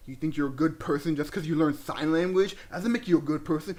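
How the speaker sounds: a mild mock rant at the bully; going off the handle. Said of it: "starts going off the handle".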